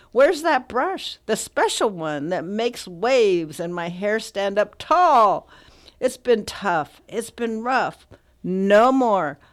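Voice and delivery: measured poetry recital with deliberate pauses; poem reading. Acted. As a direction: declaim the poem line by line to listeners. Reads the poem aloud.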